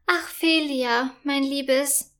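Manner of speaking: slow, weary sigh to her daughter; a tired mother letting out a sigh, understated; sighing queen. Acted. Queen answers her daughter with a gentle sigh. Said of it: "seufzt Königin Loretta".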